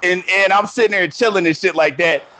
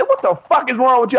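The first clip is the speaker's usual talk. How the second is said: higher-pitched, exasperated demand; retold cussing out; 5 semitones higher than usual. Man scolding a wrong-number sender, retold exasperated cussing. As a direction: demand an answer, replaying your anger. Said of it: "I was cussing this nigga out".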